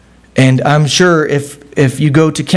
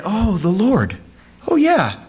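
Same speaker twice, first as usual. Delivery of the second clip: dramatic David; 6 semitones higher than usual. Retold or imitated. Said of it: "it's so dramatic".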